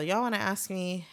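imitated strong Southern accent; Alabama accent. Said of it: "she has a strong ass accent".

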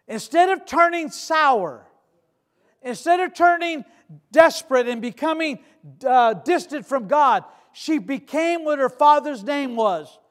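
slow, weighty sermon delivery; emphatic preaching. Acted. Preaching on the widow's response.

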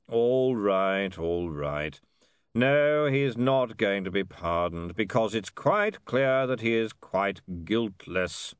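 grudging, irritable concession; mildly exasperated lord giving in; testy. Acted. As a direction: burst in, then drag out the admission testily. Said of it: "said Downey testily".

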